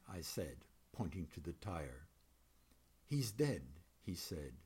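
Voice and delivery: measured, even poetry reading voice. A narrator's reading. Poet reading a dreamlike poem to an audience, measured reading. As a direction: read the poem to the room, letting lines land.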